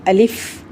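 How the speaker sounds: short, unstretched "الف"; plain brief "الف" ending on f; alif not lengthened. Shown as a demonstration. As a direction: say "الف" briefly, with no held vowel. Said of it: "الف کو تو ہم لمبا نہیں کریں گے".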